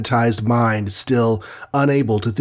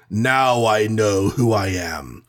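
slow, drawn-out giant's declaration; a measured bellow, stretched out word by word; slower than usual. A narrator's reading. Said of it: "bellowed Goliath".

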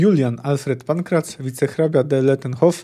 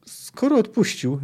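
higher, slow, mildly sullen voice; gloomy; 8 semitones higher than usual. Acted. Mourning official speaks to the paid executioner, gloomily. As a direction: draw it out with dour reluctance. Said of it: "rzekł ponuro żałobny urzędnik".

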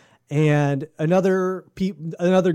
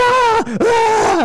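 high, loud imitated woman's shriek; lady scream; 6 dB louder than usual. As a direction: let out a piercing mock lady scream. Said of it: "lady scream".

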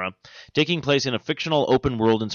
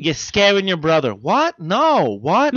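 loud, higher Boston mom scolding; Boston accent; 8 semitones higher, 6 dB louder than usual. Pretend. Mom scolding son, loud Boston accent. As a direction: snap at the kid in a Boston accent. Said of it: "we all sound like we're from Boston".

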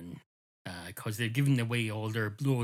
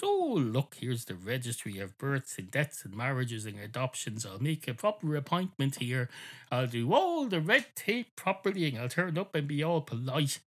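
mock eager narrator; 3 semitones higher than usual. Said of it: "all excited".

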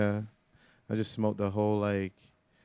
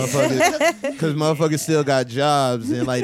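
laughing. Real, not acted. Laughing while telling.

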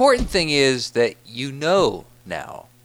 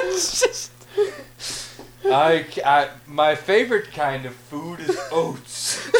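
giggling through the words; real laughter under the lines; laughing; 2 semitones higher than usual. Real, not acted. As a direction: talk while still laughing. Laughing while retelling the bit.

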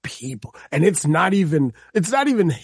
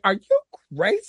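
Wesley Snipes in Blade; 6 semitones higher than usual. Retold or imitated. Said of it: "he did the Wesley Snipes from Blade".

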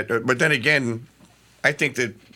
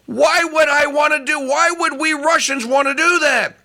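higher, pleading quoted Putin; earnest Putin; 11 semitones higher than usual. Retold or imitated. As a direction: plead it as a peacemaker, pitched up. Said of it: "he says the most amazing thing".

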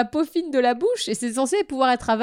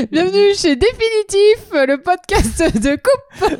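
announcer voice; 7 semitones higher, 4 dB louder, slower than usual. Pretend. Parody podcast intro.

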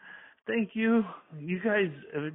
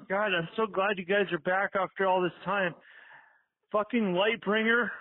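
excited; 5 semitones higher than usual. Real, not acted. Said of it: "I just got so excited".

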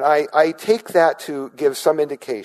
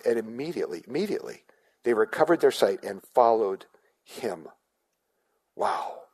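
softer, near-whispered wonder; hushed awe; 2 semitones lower, 5 dB quieter than usual. Acted. Preacher telling the congregation about sight restored, hushed awe. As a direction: let the miracle land in a hush. Awed retelling of the healing.

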